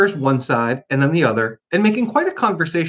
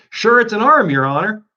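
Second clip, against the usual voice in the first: put-on Irish accent; 7 semitones higher, 5 dB louder than usual. A narrator's reading. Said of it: "He pronounced it arum".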